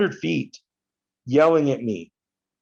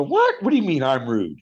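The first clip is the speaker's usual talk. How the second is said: retold indignant surprise; 2 semitones higher than usual. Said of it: "I go".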